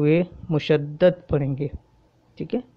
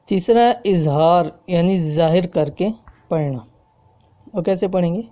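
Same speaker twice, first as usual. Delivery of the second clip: usual speaking voice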